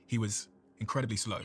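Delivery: imitating a very slow, measured mentor; incredibly slow speech. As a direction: stretch it out with slow, deliberate spacing. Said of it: "it was like that".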